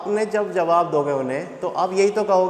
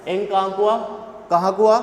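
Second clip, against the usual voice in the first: urgent call; 3 dB louder than usual. Retold or imitated. Urgent call from friend in fight.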